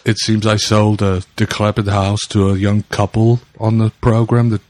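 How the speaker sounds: put-on a better Herzog with a low-key German accent; Werner Herzog accent. Cohost shows how Herzog's German accent should sound. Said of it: "That was terrible. It's not".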